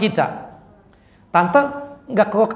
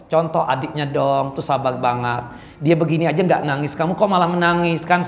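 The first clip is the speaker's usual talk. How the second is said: put-on mother scolding child; 5 semitones lower than usual. Parent comparing children to crying child.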